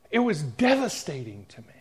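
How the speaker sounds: breathless whisper, voice gone; whispered repeat. Real, not acted. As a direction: let the words sink into a whisper.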